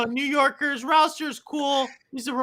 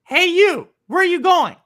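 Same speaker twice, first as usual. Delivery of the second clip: retold gruff call; 4 semitones higher, 8 dB louder than usual. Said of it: "The bus driver says".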